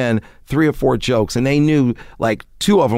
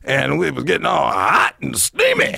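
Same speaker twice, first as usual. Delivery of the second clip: Redd Foxx voice; 4 semitones higher than usual. Retold or imitated. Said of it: "And he goes".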